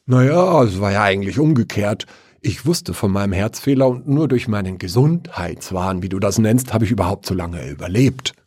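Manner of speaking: lightly voiced dead father, brisk; a hint of the father answering from below; calm dead father, talking fast; father's voice from the grave. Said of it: "antwortete die Stimme seines Vaters".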